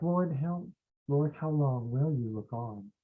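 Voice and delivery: soft, slow, drawn-out pleading; plaintive lament. Shown as a demonstration. Teacher trying out how David prayed it, softly lamenting. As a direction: plead it slowly and softly, as if worn out. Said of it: "was he more like".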